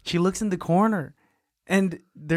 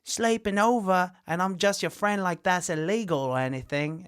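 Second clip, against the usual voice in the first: high put-on girl's voice; voiced girl character; 5 semitones higher than usual. Mia reassuring Daniel about sleeping over, high mock voice. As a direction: play her innocent excuse up high.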